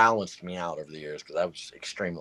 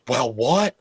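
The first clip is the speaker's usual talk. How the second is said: shocked staff; 4 semitones higher, 9 dB louder than usual. Retold or imitated. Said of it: "they're like".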